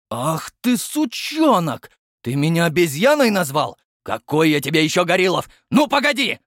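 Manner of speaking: loud, high enraged yelling; captain raging at being called gorilla; furious roar. Acted. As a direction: explode at the insult.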